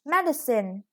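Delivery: MEDicine, first syllable stressed; "medicine" with stress on MED. Shown as a demonstration. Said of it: "The stress is on the first syllable".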